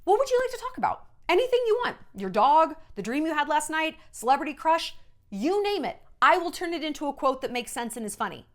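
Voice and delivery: high, fast, eager offer; cheery interviewer. Retold or imitated. Interviewer coaxing a combative star, high and eager. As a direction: sell it like a bubbly host. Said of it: "I'd say that".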